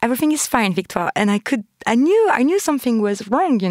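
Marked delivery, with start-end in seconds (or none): 0.0-1.1 slightly raised, smiling denial; imitated smiling reassurance. Roommate insisting to her friend all is fine, smiling pretence. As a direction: mimic a pleasant cover-up through a big smile. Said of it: "with a very big smile".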